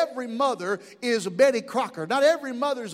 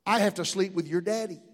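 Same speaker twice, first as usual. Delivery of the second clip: reassuring mother; 5 semitones lower, 4 dB quieter than usual. Acted. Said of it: "gave him a reassuring hug".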